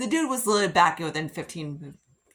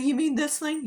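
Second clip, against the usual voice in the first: put-on Jason's childish voice; 9 semitones higher than usual. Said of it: "He's like".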